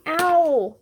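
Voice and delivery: high, loud startled "Ow"; gasp. A narrator's reading. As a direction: jolt out a startled cry. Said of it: "gasped Baby Badger".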